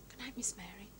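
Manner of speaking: soft whispered good night; quiet late-night whisper. Acted. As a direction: hush so as not to wake him.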